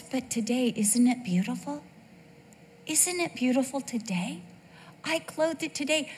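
a hint of a tender God. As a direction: admire the flowers tenderly.

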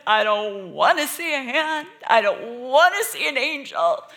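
put-on high, loud, frantic little-girl plea; panicked child. Little Cheryl runs to her brother begging, high and loud in panic. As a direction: cry it out like a terrified six-year-old. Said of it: "went to Chuck and said".

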